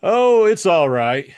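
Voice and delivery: hearty reassuring Spade. A narrator's reading. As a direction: brush her worry aside. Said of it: "he assured her".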